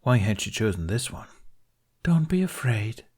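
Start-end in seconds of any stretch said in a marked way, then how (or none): 2.0-3.0 higher falsely soothing voice; sympathetic queen voice. A narrator's reading. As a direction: fake sympathy, gently. Snow Queen feigning sympathy.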